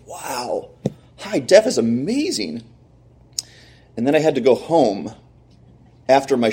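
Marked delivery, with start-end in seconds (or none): 0.1-2.6 slow, awestruck marvelling; mesmerized awe. Retold or imitated. TV salesman watching high def, mesmerized. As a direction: draw it out, pitch climbing in wonder. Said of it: "I was, like, mesmerized by this".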